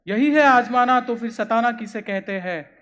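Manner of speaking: forceful poetic re-reading; declaimed verse. Acted. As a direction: hit the first phrase hard, then ease down. Verse repeated with more force.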